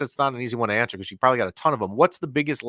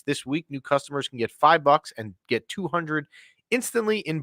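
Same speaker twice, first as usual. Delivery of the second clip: sponsor ad read; 3 semitones higher than usual. Acted. Host reads a sponsor ad.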